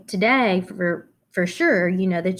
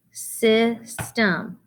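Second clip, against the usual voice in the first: System said higher, split into sys-tem; syllable tapping; 3 semitones higher than usual. Shown as a demonstration. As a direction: tap out System for the class. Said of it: "first syllable".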